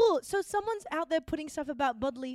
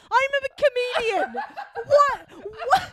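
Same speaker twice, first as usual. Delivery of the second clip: laughing; 10 semitones higher, 9 dB louder, slower than usual. Real, not acted. Comedian answers, laughing.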